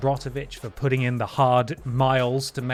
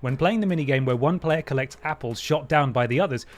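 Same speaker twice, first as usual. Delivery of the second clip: ordinary delivery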